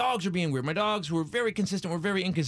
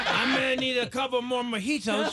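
put-on laughing drunk; 6 semitones higher than usual. Drunk self, laughing reply.

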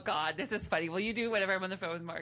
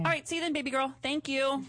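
higher, chummy phone sign-off; playful phone voice; 5 semitones higher than usual. Shown as a demonstration. Host ending a demo call with Mark, playful phone voice. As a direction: sign off sweetly on a pretend call. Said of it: "That's how I talk to him on the phone".

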